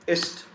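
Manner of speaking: "ist" with a voiceless s. Shown as a demonstration. Teacher gives students an example, "ist" with hissed s. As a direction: say German "ist" as ISST. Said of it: "we pronounce it as s".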